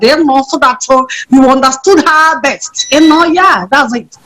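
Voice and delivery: put-on lightly done Nigerian Igbo girl accent; proper Igbo. Shown as a demonstration. Actor introducing Che Girl on request, proper Igbo accent. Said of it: "proper Igbo girl".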